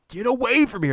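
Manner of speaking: high, loud mock yell; high squeaky mock warning; high mock shout. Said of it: "He's like".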